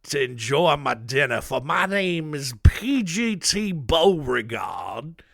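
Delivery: hammed-up British accent, slow and showy; P G T Beauregard in a British accent. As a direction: play a pompous general in a put-on British accent, outraged his dinner was interrupted. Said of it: "I gave him a British accent".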